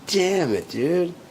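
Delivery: loud high-pitched angry pleading; furious outburst. Real, not acted. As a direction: rage at the memory. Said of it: "Still mad about that".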